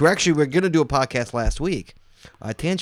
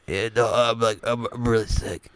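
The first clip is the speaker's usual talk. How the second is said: sick Walt; 2 semitones lower than usual. Retold or imitated. Co-host imitating his sick friend on the phone, feeble impression. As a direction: drag it out like a sick man. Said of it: "let me see if I can do Walt".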